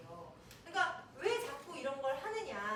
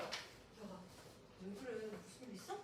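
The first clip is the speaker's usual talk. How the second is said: much softer, low and tender check-in; gentle concern; 6 semitones lower, 11 dB quieter, slower than usual. Acted. Child asking an upset friend what happened, soft concern. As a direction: imitate a friend carefully asking after someone.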